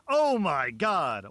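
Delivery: high, loud, drawn-out disgusted cry; shout. Acted. A cousin crying out slowly at the smell. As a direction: wail it slowly as the stink hits. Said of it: "Shouts of".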